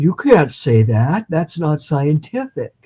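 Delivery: mildly scold, lightly voiced; lightly voiced old hypnotist. Famous hypnotist objecting to her definition, mildly stern. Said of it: "he said".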